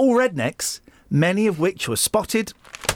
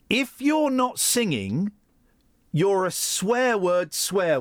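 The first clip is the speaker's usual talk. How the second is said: put-on slow broad northern English accent; 5 semitones higher, much slower than usual. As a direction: drawl it like a Northern pub singer. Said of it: "he says in a broad northern accent".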